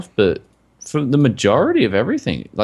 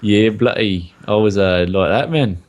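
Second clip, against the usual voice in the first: put-on South African accent. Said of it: "the South African accent".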